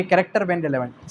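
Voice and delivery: each word drawn out slowly; slow dictation. Shown as a demonstration. Teacher dictating the article title to the class. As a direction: lay the heading down slowly for students. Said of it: "article sixty six से sixty nine तक".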